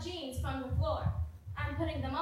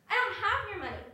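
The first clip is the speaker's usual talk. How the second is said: much higher and louder, fed up; exasperated denial; 8 semitones higher, 4 dB louder than usual. Acted. Friend losing patience at the accusation, louder. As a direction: throw the denial back hard. Repeated denial in a rising argument.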